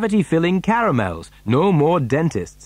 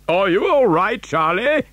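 higher, lively checking question; concerned grandfather; 6 semitones higher than usual. A narrator's reading. Grandpa Joe to clinging Charlie, lightly voiced concern. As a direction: check on the child, voice lifted.

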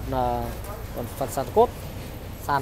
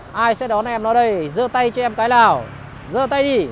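higher, louder sales call-out; rallying buyers; 5 semitones higher, 3 dB louder than usual. Real, not acted. Rallying buyers to raise their hands. (hô hào khách giơ tay)

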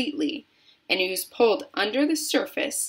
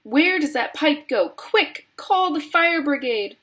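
high, urgent cries; frantic mother, pitched high; panicked yelling; 8 semitones higher, 4 dB louder than usual. A narrator's reading. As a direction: yell for emergency help. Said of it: "yelled Missus Gloop".

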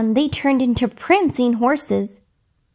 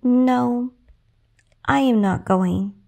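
sadly; slower than usual. Acted. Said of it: "said Cinderella sadly".

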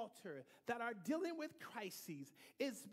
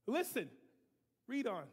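louder call to the reader; 6 dB louder than usual. Real, not acted. Preacher to reader at the mic, loud call. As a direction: call out over the room to the reader.

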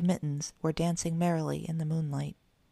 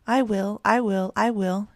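eager cry; 3 semitones higher, 4 dB louder than usual. A narrator's reading. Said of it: "cried the three little kittens".

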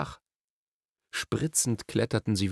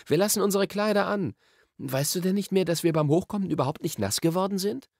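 put-on higher boy-character voice, matter-of-fact; Diggory, reassuring; 9 semitones higher than usual. A narrator's reading. Diggory reminds Polly they stayed dry, reassuring. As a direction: explain it in a raised, lively character voice.

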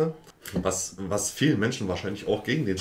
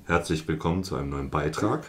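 lower, deadpan greeting as the Bigfoot call; Bigfoot noise demo; 4 semitones lower than usual. Shown as a demonstration. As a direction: play it as the monster's eerie call. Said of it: "wäre ungefähr so".

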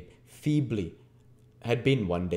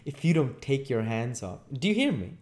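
higher-pitched, cool warning; cool threat; 7 semitones higher than usual. Acted. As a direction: warn him off with composure. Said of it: "replied the humpbacked man coolly".

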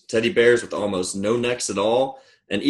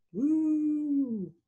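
high, soft, drawn-out "woo"; long falsetto woo; soft train whistle; 7 dB quieter than usual. Pretend. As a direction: hoot softly like a distant train.

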